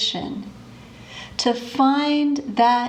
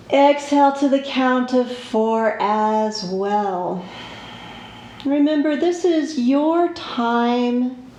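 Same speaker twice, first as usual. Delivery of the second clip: guided relaxation. Shown as a demonstration. Yoga teacher settling students onto the floor, guided relaxation. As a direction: guide them unhurriedly into the breath.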